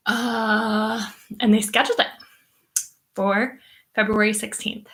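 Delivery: talking through a burp; words with a burp. Real, not acted. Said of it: "sorry, I'm burping a lot".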